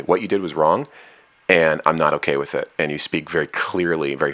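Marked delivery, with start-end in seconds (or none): 0.0-2.7 very firmly. Retold or imitated. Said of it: "very firmly".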